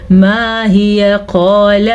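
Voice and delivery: मा हिया flowing straight into क़ाल; joined without pause. Shown as a demonstration. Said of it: "आप इसको पढ़ेंगे". (बिना रुके मिलाकर)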